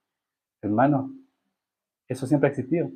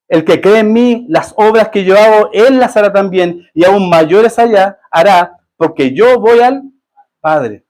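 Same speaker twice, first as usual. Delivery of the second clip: slow solemn scripture reading; 2 semitones higher, 3 dB louder, slower than usual. Acted. Reading Jesus' words aloud.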